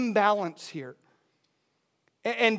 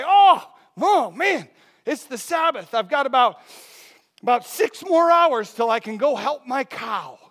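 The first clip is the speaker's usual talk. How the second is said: mock fretful farmer; 2 semitones higher, 5 dB louder than usual. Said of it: "Would you say".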